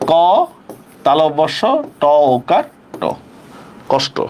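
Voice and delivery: letter-by-letter কষ্ট, ending in rounded "to"; measured dictation of কষ্ট, piece by piece; pronunciation spelled out. Shown as a demonstration. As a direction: sound out কষ্ট with pauses, then say it whole as "kawsh-to". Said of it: "তাহলে কি হবে?".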